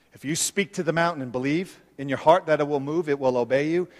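Jesus speaking low and soft, quickened; a gentle, intimate voice for Jesus; voicing Jesus. Preacher voicing Jesus inviting the disciples, low and soft. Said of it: "And then he says".

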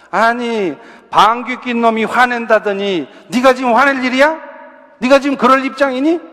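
rising indignant scold, pitch climbing to the end; mock scolding parent. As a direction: mimic a parent scolding an angry child. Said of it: "야단부터 친다는 거예요".

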